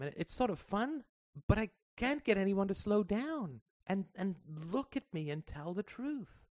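put-on high, earnest little girl pouring her heart out; a child trying to put a big worry into words; young girl Sarah. A narrator's reading. Daughter confiding in her mother in the parked car, high and earnest.

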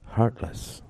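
whispered echo of the word. A narrator's reading. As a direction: breathe the word back, thinking. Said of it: "echoed Joanne".

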